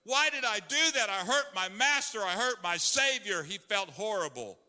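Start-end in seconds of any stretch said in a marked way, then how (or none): 0.0-3.4 anguished, rising lament, pitched higher; a touch of tearful despair; weeping Peter. Acted. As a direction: voice Peter's remorse as he breaks down. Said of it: "He wept and he cried".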